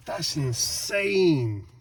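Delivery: slow, drawn-out amazement; amazed. Real, not acted. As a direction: stretch it out in awe. Amazed at bright new lights.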